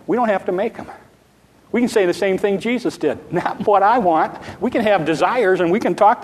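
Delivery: excited, laughing. Real, not acted. Preacher telling the congregation about surrender, laughing and excited. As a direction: lift it with joyful relief.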